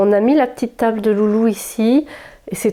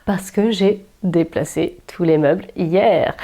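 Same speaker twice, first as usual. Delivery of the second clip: hoarse from a cold, real; speaking with a worn-out hoarse voice. Real, not acted. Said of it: "j'ai la voix cassée". (voix cassée, enrouée)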